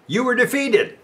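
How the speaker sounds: high, mocking voice of defeat; taunting inner voice. Preacher voicing the discouraging voice to his congregation, mocking. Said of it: "when the voice says to me".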